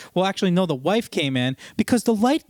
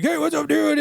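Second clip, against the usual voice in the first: high, chirpy "what's up"; mock cheery greeting; 11 semitones higher than usual. Salesman mimics parts guy, high chirpy greeting. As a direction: breeze in like a clueless buddy.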